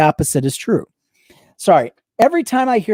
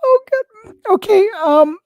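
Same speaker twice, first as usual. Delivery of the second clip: high, winded after a laughing fit; breathless after laughing; 5 dB louder than usual. Real, not acted. Recovering from laughter.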